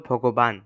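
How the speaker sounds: ভগবান stopped on the final n; correct pronunciation. Shown as a demonstration. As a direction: say ভগবান cutting off at n. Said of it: "শুদ্ধ উচ্চারণ হলো". (ভগবান, শেষের ন-এ থেমে)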